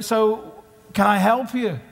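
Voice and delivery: high, innocent helpful voice; wide eyed naive. Retold or imitated. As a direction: play dumb, all sweetness. Elisha plays innocent to soldiers.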